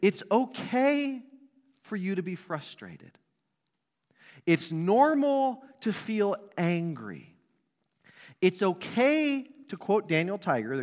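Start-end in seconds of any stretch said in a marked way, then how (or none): 0.0-9.5 put-on slow, high, gentle voice for a small child; calm a frustrated toddler, stretching each word; soothing a toddler. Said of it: "we say".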